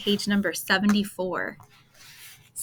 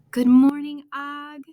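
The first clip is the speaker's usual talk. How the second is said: cheerful teacher; 6 semitones higher, 7 dB louder, slower than usual. Acted. Teacher greets the frog.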